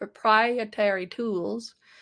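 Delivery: fake, put-on southern US accent. Finally getting out a word after stumbling over it: put-on southern accent.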